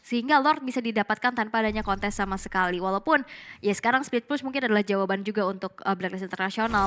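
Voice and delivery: rising hype on the big play; esports caster. Acted. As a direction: call the action, build to the kill. Casts the match play-by-play. (komentator esports yang bersemangat)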